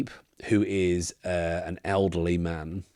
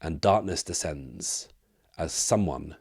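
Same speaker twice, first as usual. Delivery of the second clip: game master's scene setting. Acted. Game master narrates mist closing as something approaches, hushed scene setting.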